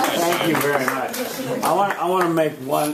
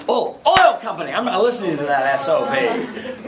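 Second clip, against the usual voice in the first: mock dismissive; 5 semitones higher, 5 dB louder than usual. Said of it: "they go".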